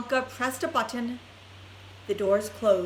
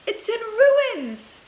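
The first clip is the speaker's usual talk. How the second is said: high, loud, slow lament; father lamenting his ruined home; despairing wail; 12 semitones higher, 7 dB louder, slower than usual. A narrator's reading. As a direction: stretch out the dismay. Mister Bucket despairs over house.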